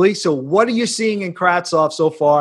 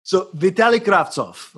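light Russian accent. Shown as a demonstration. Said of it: "I said it with a little bit of a Russian accent".

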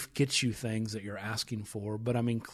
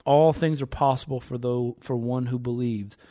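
measured, emphatic Bible reading; scripture reading; 4 dB louder than usual. Acted. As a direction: read the passage aloud with building emphasis. Reads scripture aloud.

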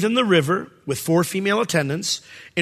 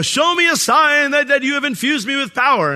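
pleading prayer; 8 semitones higher, 4 dB louder than usual. Retold or imitated. Pharaoh's daughter begs the Nile for a sign, pleading.

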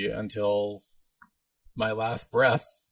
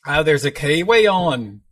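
put-on playful, drawn-out New Zealand accent; higher, louder mock Kiwi voice; 4 semitones higher, 6 dB louder than usual. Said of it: "speak in a Kiwi accent".

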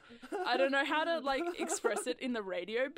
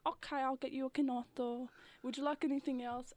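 a touch of Italian waiter; 4 semitones higher than usual. Retold or imitated. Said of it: "you kinda do that personality".

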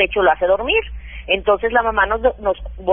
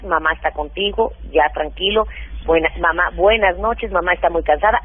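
lower, soothing bedtime reassurance; madre que arrulla; 3 semitones lower than usual. Acted. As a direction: gently settle a crying baby, voice dropped. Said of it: "lo apapachas". (voz de mamá que tranquiliza, más grave)

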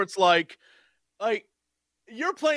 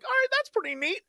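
casual approval. Retold or imitated. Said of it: "They're like".

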